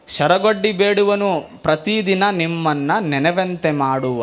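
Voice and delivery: slow, devout recital; slow reverent recitation; slow vachana recitation. Acted.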